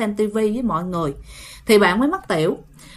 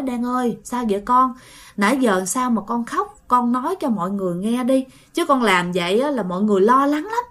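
gentle coaxing. Retold or imitated. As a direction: coax the calmed boy kindly. Family gently asking boy.

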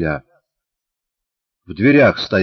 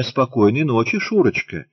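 put-on prim girl's model reply; 4 semitones higher than usual. Shown as a demonstration. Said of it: "Надобно ответить мне".

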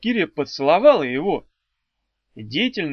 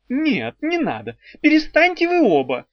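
much higher, louder pleading cry; shout; 11 semitones higher, 4 dB louder than usual. A narrator's reading. Someone on the stairs shouts to stop the duel. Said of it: "крикнул кто-то".

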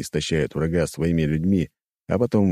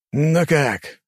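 bewildered; 8 semitones higher than usual. Acted. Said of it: "не мог дракон понять".

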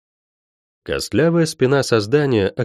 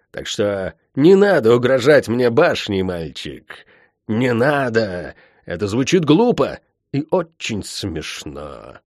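contemptuous witch, raised pitch; scornful sorceress; 4 semitones higher than usual. Acted. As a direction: sneer down at the boy. Tiph mocks the healer.

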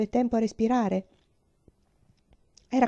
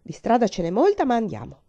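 losing patience; 2 semitones higher, 4 dB louder than usual. Acted. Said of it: "perdendo la pazienza".

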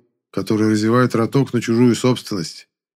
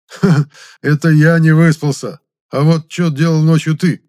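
higher, louder laughing jab; chuckling tease; 7 semitones higher, 8 dB louder than usual. Acted. Grishka mocks the hero's tired excuse, laughing. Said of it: "хохотнул Гришка".

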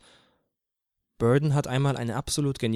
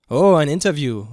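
loud exclamation, raised in pitch; called out; 4 semitones higher, 11 dB louder than usual. A narrator's reading. One of the men hears of the interview, calling out. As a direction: call it out to the group. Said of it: "rief einer der anderen Männer".

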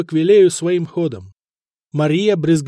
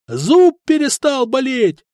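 high, loud, slow cry of relief; overjoyed shout; 9 semitones higher, 4 dB louder, slower than usual. A narrator's reading. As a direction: yell the good news. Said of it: "заорал ещё один".

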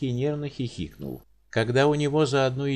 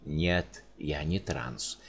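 barked; 7 semitones lower, 4 dB quieter, much slower than usual. Acted. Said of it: "рявкнул Волынский".

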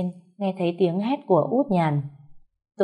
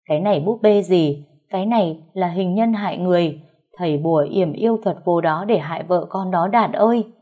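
aggressive insisting. Acted. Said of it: "bà hung hăng".

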